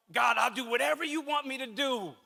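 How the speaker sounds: half-hearted imitating of an easy promise to God; casual prayer. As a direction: toss it off like everyone says it. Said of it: "we all say this thing".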